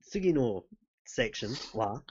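halting, drawn-out mock-serious Japanese; jokey Japanese. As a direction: improvise Japanese with long hesitations. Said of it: "to talk in Japanese, please".

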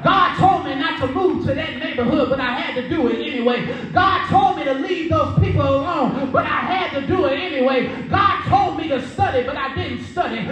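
rhythmic testimony climbing in pitch toward the end; impassioned preaching. Real, not acted. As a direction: build each refrain like a preacher working the congregation. Preacher builds through repeated confession.

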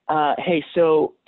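high, fast mocking questioner voice; mock naive asker, high and quick; mock clueless follower.

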